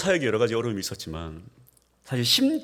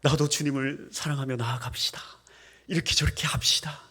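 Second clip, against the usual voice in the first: whispered practice; 3 semitones higher than usual. Shown as a demonstration. Pastor practicing complete sentences, whispered. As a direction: whisper full sentences in standard speech. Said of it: "연습하고, 또 연습하고".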